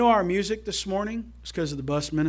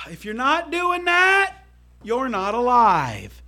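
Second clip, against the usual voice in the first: slow explanation; 3 semitones higher, slower than usual. Shown as a demonstration. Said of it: "I gotta really explain it this way".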